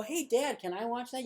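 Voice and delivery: lightly voiced kid begging; kid asking. Kid asking dad to watch a film, mild kid voice. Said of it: "your kids can watch a scene from it and go".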